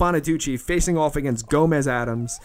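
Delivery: lightly voiced ringside announcer; mock play-by-play commentary; wrestling commentator. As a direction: call the match like a TV wrestling host.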